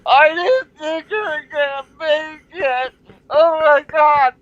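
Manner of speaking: high, loud, slow tearful relief; clinging to him at the airport; hammed-up high emotional wail; overwhelmed Danielle. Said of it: "and she's like".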